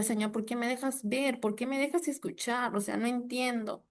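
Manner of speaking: a quiet mock sob of protest to God; retold tearful plea. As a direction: softly imitate the crying prayer. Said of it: "yo lloraba y me tiraba al piso".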